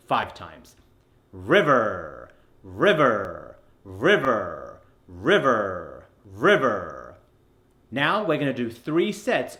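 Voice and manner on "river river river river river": "River" lower, with a long falling er; stretched ER. Shown as a demonstration. Coach drilling five times, the er stretched out. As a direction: draw out the r-coloured end of "river", evenly repeated. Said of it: "let's stretch out the er sound".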